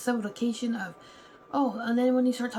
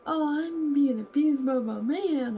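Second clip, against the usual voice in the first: slow and louder, a hammed-up whiny complaint; mock crying client; 4 semitones higher, 5 dB louder, slower than usual. Mocking a crying client to the therapist, hammed-up whine. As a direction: whine it like a client who plays the victim. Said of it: "you got the criers".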